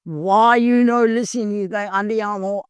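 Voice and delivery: lightly put-on Italian father-in-law; imitated Italian accent. Italian father-in-law chides her before driving to hospital, imitated Italian accent. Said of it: "my Italian father-in-law".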